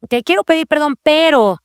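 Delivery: mock grudging apology trailing into pero; excuse-laden apology. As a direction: apologize while already building a but. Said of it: "Y no es decirle a nuestros hijos".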